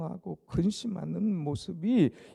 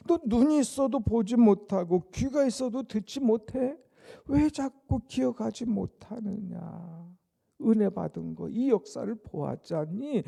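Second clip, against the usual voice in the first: rebuking; 5 semitones higher, 5 dB louder than usual. Acted. Jesus rebuking disciples, paraphrased.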